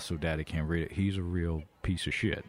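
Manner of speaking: muffled behind a hand; hand over mouth. Acted. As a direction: speak through your fingers. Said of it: "I'm putting my hand over my mouth".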